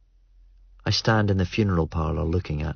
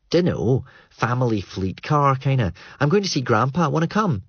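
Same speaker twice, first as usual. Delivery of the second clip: put-on higher, breezy young woman; Greer's voice; 7 semitones higher than usual. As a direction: toss it off casually, a bit higher. Greer's voice in dialogue.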